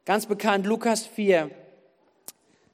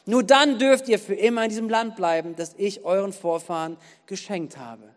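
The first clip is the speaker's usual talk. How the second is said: emphatic scripture reading. Acted. Preacher reads God's command to change to the congregation, emphatic scripture reading. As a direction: read it out with weight on each command.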